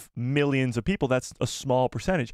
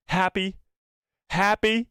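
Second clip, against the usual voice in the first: teasing taunt; 6 semitones higher, slower than usual. Real, not acted. Taunting viewer after fake impression.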